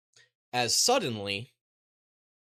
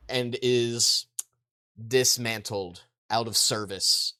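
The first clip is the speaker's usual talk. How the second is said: ordinary talk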